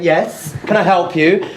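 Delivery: mildly mock-polite enquiry; courteous, restrained offer of help; polite British manner. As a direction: imitate polite British reserve. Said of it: "In the polite British way we do".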